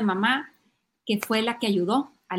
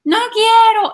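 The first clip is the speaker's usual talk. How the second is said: loud, high mock tantrum; defiant child; 11 semitones higher, 11 dB louder, slower than usual. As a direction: shout a refusal like a kid. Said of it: "Y si te dicen". (berrinche fingido, agudo y fuerte)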